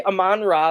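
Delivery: "Amon-Ra" as uh-MON rah, second syllable stressed; preferred pronunciation. Shown as a demonstration. Host showing co-hosts how he says it, preferred pronunciation. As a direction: say "Amon-Ra" in parts, not like amen. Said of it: "not like as it's one full word".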